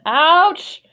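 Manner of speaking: quick yelp of "ouch"; sudden pained ouch. Real, not acted. Actor hurt in the middle of a line, pained yelp. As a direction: break off with a yelp.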